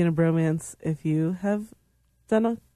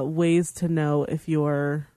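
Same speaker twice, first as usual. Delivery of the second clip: title reading; 2 semitones lower, slower than usual. Shown as a demonstration. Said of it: "my article would be titled".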